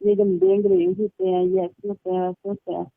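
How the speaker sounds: high, indignant mock scolding from the husband; imitating a scolding. Husband scolds wife for watching the CD, high mock outrage. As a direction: pitch it up and mimic his outrage. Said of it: "इतनी गालियां भी दी".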